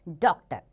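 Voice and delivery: "डॉक्टर" with an open aw vowel between aa and o; English aw sound. Shown as a demonstration. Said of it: "ओ की मात्रा का sound आता है". (आगत ध्वनि वाला डॉक्टर)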